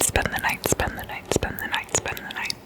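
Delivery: phrase looped in a very soft whisper; fading whispered echo. Real, not acted. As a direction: let each whispered repeat sink away. ASMR phrase repeated, fading.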